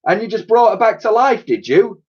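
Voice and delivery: chuckling. A narrator's reading. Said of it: "said the man with a chuckle".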